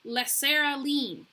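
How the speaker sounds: loud, high crier's call clearing the street; crier shouting out. A narrator's reading. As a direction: bellow it like a town crier. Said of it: "was heard shouting out".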